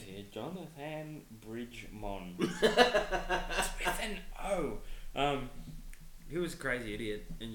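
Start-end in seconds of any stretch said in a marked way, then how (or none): 0.3-4.8 slow laughing. Pretend. Jokingly spelling fake name.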